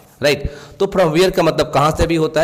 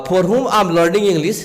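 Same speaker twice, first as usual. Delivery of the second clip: very slow, word by word, slightly raised pitch; slow example reading; 3 semitones higher, much slower than usual. Shown as a demonstration. Teacher giving students an English example sentence, slow and clear. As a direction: read it out like a dictation. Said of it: "teacher reads English example".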